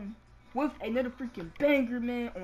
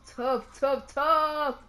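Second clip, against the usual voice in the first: hyped emphasis; 6 dB louder than usual. Real, not acted. Gamer hyping up Doncic's shots for viewers, building excited yell. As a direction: build the repeated tough into a hype yell.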